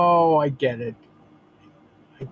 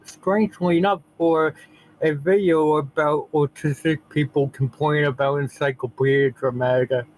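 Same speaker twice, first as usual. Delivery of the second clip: lisp. Real, not acted. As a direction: speak with a gentle lisp. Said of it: "Sorry for the lisp".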